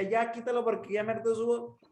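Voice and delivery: tiresome high-pitched patter; constantly high voice. Shown as a demonstration. Coach mimicking fed-up podcast listeners, held high. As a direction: keep every word up high, no letting down. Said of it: "muy cansado que yo todo el tiempo estuviera hablando así".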